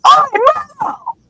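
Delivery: high, slow sing-song Myrtle; high sing-song call. Retold or imitated. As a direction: croon her name teasingly high. Peeves calling Myrtle.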